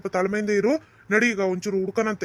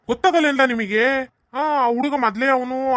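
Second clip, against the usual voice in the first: raised, higher-pitched rebuke; indignant scolding; 3 semitones higher than usual. Acted. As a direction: scold them for carelessness. Elder scolds careless parents.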